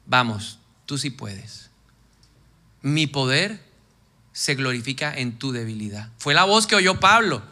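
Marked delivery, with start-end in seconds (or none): 0.1-6.1 encouraging voice of God. Acted. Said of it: "otra voz que te dice".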